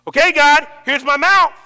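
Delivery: loud, earnest offering to God; offering prayer. Retold or imitated. Friend offering his mouth to God each morning. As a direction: call it out, open-handed.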